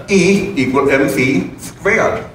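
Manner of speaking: put-on slow, heavy German-accented Einstein. Speaker mimics Einstein in a mock heavy German accent. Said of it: "he said in a very heavy German accent".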